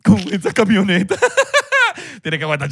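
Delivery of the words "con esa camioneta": high, teasing taunt at a show-off; mocking jab. Host taunts a show-off driving in Doral, high mocking voice. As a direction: needle the guy with the flashy truck.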